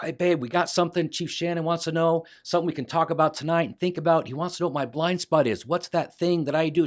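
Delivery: bursting to share the news with his wife; excited. Retold or imitated. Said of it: "I'm so excited".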